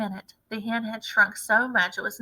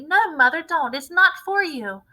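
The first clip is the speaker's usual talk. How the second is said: higher, louder urgent plea; alarmed pleading; 6 semitones higher, 6 dB louder than usual. A narrator's reading. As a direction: beg her to stop. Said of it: "cried Miss Cranky".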